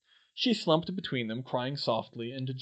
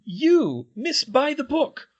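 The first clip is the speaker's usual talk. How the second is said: Fred teasing; 13 semitones higher, 8 dB louder, slower than usual. A narrator's reading. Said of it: "Fred countered".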